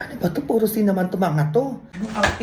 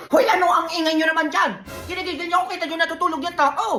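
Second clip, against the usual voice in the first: annoyed tita; 5 semitones higher, faster than usual. Acted. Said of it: "Ay, sorry po, tita".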